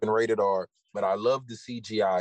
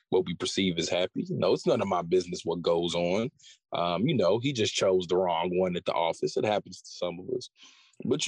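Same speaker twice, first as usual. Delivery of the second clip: smooth pickup pitch. Pretend. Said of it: "go ahead, do your thing".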